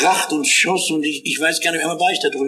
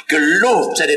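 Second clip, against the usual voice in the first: joyful shout; 4 dB louder than usual. Acted. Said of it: "Das war ein Schreien vor Freude".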